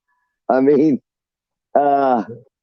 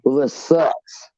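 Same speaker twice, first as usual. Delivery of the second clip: mock newbie; 3 semitones higher, slower than usual. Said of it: "the newbie's going".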